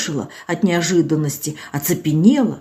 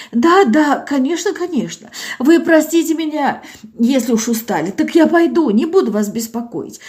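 put-on higher, plaintive old woman pleading; tearful old village woman; 7 semitones higher than usual. Old Zinaida to doctor Olga, plaintive and tearful. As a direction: voice an old woman close to tears.

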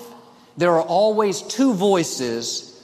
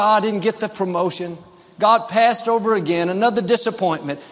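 higher-pitched acted disappointment; mock complaining; 4 semitones higher than usual. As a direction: lightly imitate someone moaning over a setback.

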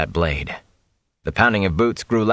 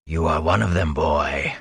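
low, hoarse whisper of a faceless monster; a rasp like a file drawn across bone; 4 semitones lower than usual. A narrator's reading. The Fade menacing the cornered boy in a hoarse whisper. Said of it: "a hoarse whisper like a file".

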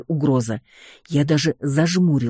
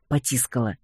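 plain reading voice

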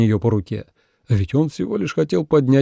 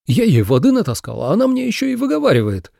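rising to higher, fast outrage; complain, offended and quick; indignant grumble speeding up; 8 semitones higher, faster than usual. A narrator's reading. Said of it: "возмутился он".

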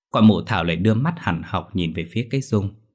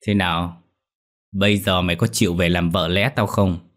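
gritted menace. Acted. Master presses the girl to be his concubine, menacing. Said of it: "nó gằn giọng".

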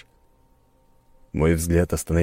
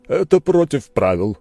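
duel steward; 9 semitones higher, 6 dB louder than usual. A narrator's reading. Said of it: "сказал он".

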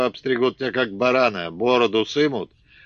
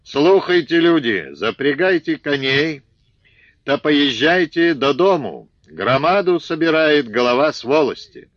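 high loud Ukrainian-tinged shout; yelling from horseback; 5 semitones higher, 6 dB louder than usual. Acted. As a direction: bellow the news to the whole field. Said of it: "заорал".

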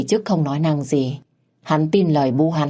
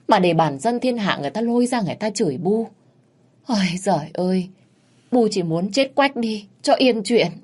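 whining mother-in-law; 3 semitones higher than usual. Acted. Bà Tư badmouths her daughter-in-law to her son on the phone, higher and whining. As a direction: lay the shame on thick, wailing at the end.

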